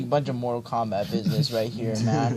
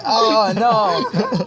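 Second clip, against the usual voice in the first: laughing mock dismay; 7 semitones higher, 5 dB louder than usual. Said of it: "he's like".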